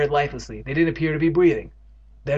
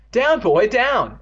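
higher, louder order to the dog; commanding cry; 10 semitones higher, 7 dB louder, much slower than usual. Acted. Evan ordering the leaping dog down, loud. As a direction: shout down at the dog. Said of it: "Evan cried".

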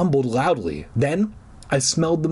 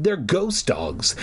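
mild cry; 5 semitones higher, slower than usual. Acted. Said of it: "Mickey cried".

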